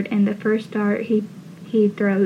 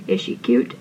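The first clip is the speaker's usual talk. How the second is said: lightly roughened, gruff dad voice; a touch of gruffness on a short question. Retold or imitated. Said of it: "he says in a gruff voice".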